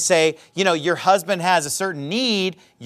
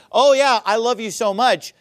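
mock empty love; 4 semitones higher than usual. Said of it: "and you're like".

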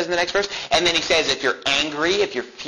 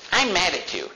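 mildly mock-angry, raised pitch; imitated mad parent; 5 semitones higher than usual. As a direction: play a parent scolding a child, without shouting. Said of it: "she gets mad".

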